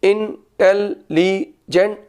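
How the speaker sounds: slow, each syllable of इंटेलिजेंट spoken apart as in-tel-li-gent. Shown as a demonstration. Teacher showing students the syllables of इंटेलिजेंट, slowly. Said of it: "रुक रुक कर बोलें".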